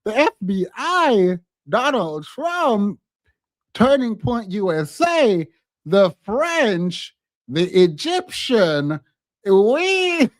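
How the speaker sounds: high mock-incredulous voice, names dragged slowly; mocking Candace's list. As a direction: parody her rattling off every suspect. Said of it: "They're like".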